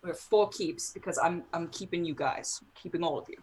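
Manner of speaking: tipsy, sentimental slurring; drunk. Acted. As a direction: sound a little drunk and clingy. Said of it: "Is he drunk?".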